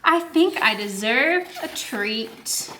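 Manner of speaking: slow, self-satisfied; smug treat. Acted. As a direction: reward yourself, leisurely.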